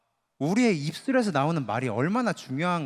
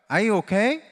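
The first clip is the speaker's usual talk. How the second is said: gentle demo; 3 semitones higher, much slower than usual. Shown as a demonstration. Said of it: "이렇게 한번 해볼까요".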